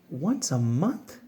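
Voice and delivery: soft, slow, doubtful echo rising at the end; incredulous question. Acted. Reader questions the pigeon's plan, softly incredulous. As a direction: question it gently in disbelief. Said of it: "Not once a month, right?".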